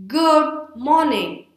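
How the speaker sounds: slow, high, drawn-out energetic greeting; projected energy. Shown as a demonstration. Teacher demonstrating projected energy, slow and emphatic. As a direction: project it brightly, stretching each word. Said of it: "let's project some energy and say".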